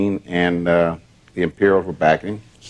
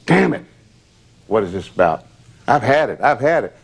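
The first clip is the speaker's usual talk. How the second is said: furious outburst; 2 semitones higher than usual. Retold or imitated. Elvis punches freezer in rage.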